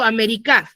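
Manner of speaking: América as Ame-ri-CÁ, the final CA emphasized; stress on last syllable of América. Shown as a demonstration. Teacher compares possible stresses for students, América stressed on the final CA. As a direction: put the emphasis on the end of América, CA. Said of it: "esa sílaba la debo de pronunciar con mucho más énfasis".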